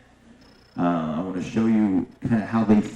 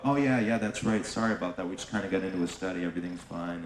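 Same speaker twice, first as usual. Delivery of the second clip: fast, fading, softer reassurance; hurried fading excuse; 7 dB quieter than usual. Retold or imitated. Agent hurriedly reassuring his partner, fading. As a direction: brush it off quickly.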